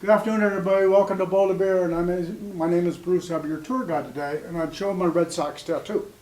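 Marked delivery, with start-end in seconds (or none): 0.0-4.4 tour guide greeting. Retold or imitated. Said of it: "And my opening line was".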